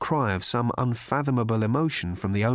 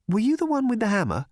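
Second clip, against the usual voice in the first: Trillian voice; 11 semitones higher, faster than usual. A narrator's reading.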